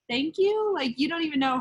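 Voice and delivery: high, swooping thank-you; retold thanks with surprised lift; amazed gratitude. Retelling her thanks for a powerful message, amazed.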